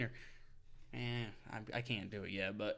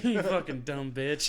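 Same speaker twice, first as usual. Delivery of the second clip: laughing insult; 5 dB louder, slower than usual. Real, not acted. Laughing at the story.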